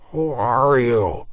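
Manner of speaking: slow, strangled question; choked voice. Acted. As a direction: gag out the words. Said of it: "a pitiful, choked gabble".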